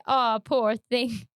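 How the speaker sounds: slow mocking echo; slow mock pity. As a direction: repeat it slowly, mocking. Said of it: "Didn't you say".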